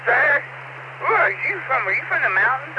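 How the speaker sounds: high mock girl voice; young woman's question. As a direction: mimic a kid politely quizzing a stranger. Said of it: "this kid looks at me and goes".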